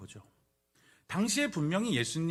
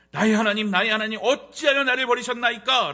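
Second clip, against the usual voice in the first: loud, raised anguished cry to God; 6 semitones higher, 11 dB louder than usual. Acted. Jesus cries to God, asking why he is forsaken, loud outcry. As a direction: cry it out with full force. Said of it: "라고 외쳤을 때 그 외침".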